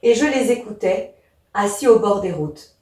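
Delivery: measured verse reading, "Et je les écoutais" / "assis au bord des routes"; pause at the hémistiche. Shown as a demonstration. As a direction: read the verse in two halves, pausing after "écoutais". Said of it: "je vais le lire".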